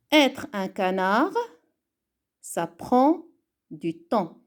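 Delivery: calm reading aloud, savouring each line; slow gentle reading. Shown as a demonstration. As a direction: read the poem slowly and gently for the class. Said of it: "faisons une lecture lente et douce".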